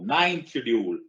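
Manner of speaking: half-shouted classroom chant prompt; चिल्लाकर बोलने का नमूना. Shown as a demonstration. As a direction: call it out for the class to yell. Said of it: "जोर से चिल्लाओ". (हल्का चिल्लाते हुए, ज़ोर से)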